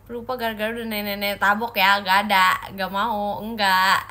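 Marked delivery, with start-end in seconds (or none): 2.0-4.0 loud playful no; mock loud refusal; loud denial. Real, not acted.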